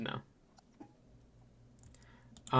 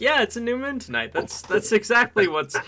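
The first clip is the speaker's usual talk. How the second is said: imitating her past self; 6 semitones higher, 4 dB louder than usual. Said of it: "and I'm like".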